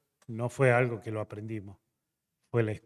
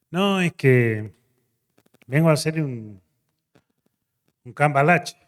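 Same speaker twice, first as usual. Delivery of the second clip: lightly voiced pastor; 4 semitones higher, 9 dB louder than usual. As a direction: draw it out like the pastor hedging. Pastor explains the trade.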